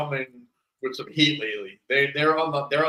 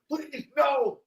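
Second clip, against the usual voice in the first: higher, lightly begging victim; mock pleading; 9 semitones higher than usual. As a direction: plead a little for mercy. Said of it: "the guy's like".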